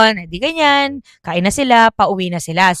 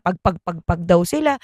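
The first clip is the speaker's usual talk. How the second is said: usual speaking voice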